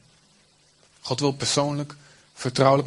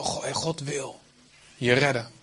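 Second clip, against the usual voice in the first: gentle; 2 semitones lower than usual. Shown as a demonstration. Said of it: "Maar wel".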